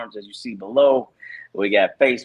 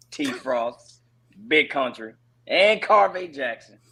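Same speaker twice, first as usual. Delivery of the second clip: wrestling announcer intro; 5 semitones higher, slower than usual. Pretend. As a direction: bellow the names like ring intros. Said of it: "give us your best W W E intro".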